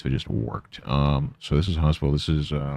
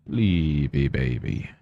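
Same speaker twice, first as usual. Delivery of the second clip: slow tender coo; slower than usual. Real, not acted. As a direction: lull the sleepy cat. Cooing slower.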